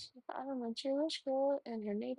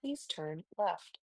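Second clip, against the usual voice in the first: slow robot AI voice; 2 semitones lower, slower than usual. Shown as a demonstration. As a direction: sound like a sat nav robot. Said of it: "Little robot A I voice".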